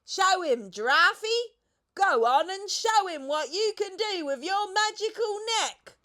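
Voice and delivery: high, loud excited egging on; excited cry. A narrator's reading. The monkey cries out, egging the giraffe on. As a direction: urge her on eagerly. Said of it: "cried out".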